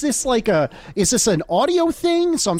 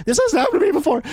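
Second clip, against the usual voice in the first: laughing, higher mock-defensive cliché; 8 semitones higher, faster than usual. Host mocking his own excuse, laughing. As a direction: play it as the classic excuse, giggling. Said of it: "This is such a boy thing to say".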